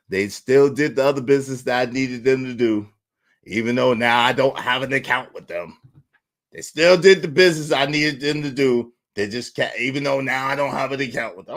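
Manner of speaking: low, measured voice; composed. Retold or imitated. Comedian recounting the business still done, low composed voice. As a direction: stay down low, holding the composure. Keeping up the composed civilized act.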